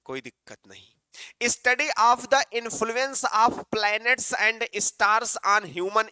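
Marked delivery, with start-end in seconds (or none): 1.4-6.1 very slow, words spaced; slow definition. Shown as a demonstration. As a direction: read the definition out slowly. Reading definition slowly.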